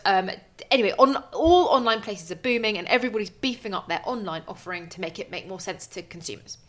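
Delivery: usual speaking voice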